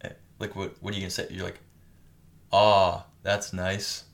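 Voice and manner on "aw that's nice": changed pitch. Shown as a demonstration. Friend showing how one reacts to something nice, changed pitch. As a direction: stretch the AW loudly, let THAT'S NICE fall away. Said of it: "you change the pitch of your voice".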